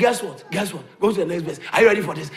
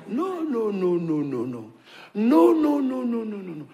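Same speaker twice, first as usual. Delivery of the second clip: dismissive no. Acted. Mock refusal of sickness.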